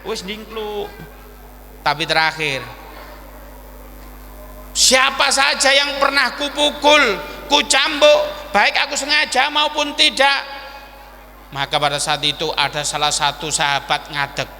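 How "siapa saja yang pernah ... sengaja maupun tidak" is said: higher, declaimed to a whole crowd; acted solemn call to the assembly; public proclamation. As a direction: announce it solemnly to everyone. Prophet addresses all his companions.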